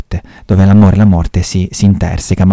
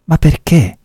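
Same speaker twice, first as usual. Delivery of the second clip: puzzled commissario; 9 semitones higher than usual. Acted. Montalbano questions the old lady.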